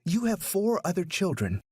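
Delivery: mock her tears slowly; scornful taunt. A narrator's reading. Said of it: "in the same tone".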